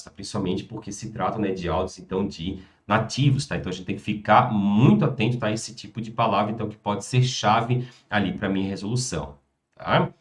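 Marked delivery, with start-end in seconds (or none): none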